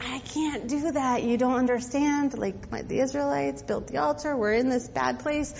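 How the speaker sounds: quiet worried objection; fearful protest. Acted. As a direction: shrink back from the task. Gideon protests the Lord's command.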